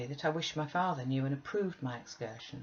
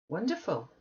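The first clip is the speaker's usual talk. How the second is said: exclaiming; 5 semitones higher than usual. Acted. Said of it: "I exclaimed".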